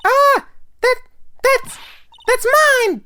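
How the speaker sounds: a hint of a silly clown; lightly voiced silly clown. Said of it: "I'm doing the clown voice".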